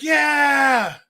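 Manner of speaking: a high, loud shout of "Yeah"; eager shout. Retold or imitated. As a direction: yell it like a pumped-up recruit. Marines cheering for beach hike.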